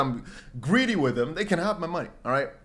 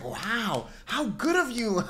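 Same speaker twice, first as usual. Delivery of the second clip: softer, put-on condescending praise; mock admiration; 5 semitones higher, 4 dB quieter, much slower than usual. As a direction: imitate patronising wonder.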